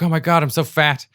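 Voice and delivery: high, loud mock panic; retold freak-out. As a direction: act out freaking out over your looks. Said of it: "I just freaked out".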